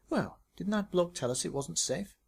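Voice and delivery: Tracy's voice. Acted.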